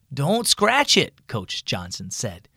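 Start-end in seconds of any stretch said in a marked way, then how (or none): 0.1-1.3 firm warning. A narrator's reading. Coach warns boy to stop.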